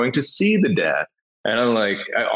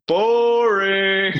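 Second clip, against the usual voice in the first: put-on bored kid; 11 semitones higher than usual. Passenger imitating the kid's verdict on the movie, high and blunt. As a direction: drop it like a blunt little boy.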